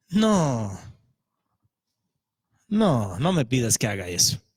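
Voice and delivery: Jonah begging not to pray. Acted. Jonah refusing, voiced low.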